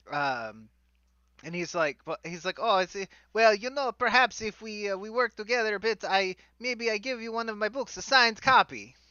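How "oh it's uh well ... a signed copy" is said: pompous wizard. Acted. GM as Volo bargaining.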